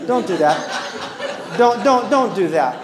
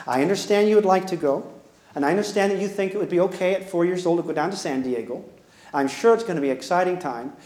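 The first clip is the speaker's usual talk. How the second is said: lower, patient and reassuring, then a firm no; calm, understanding parent; 3 semitones lower than usual. Shown as a demonstration. Parent calmly turning down the son's San Diego trip, patient. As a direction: soothe the child, then close the door gently. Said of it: "Guess what you say? "Sweetheart".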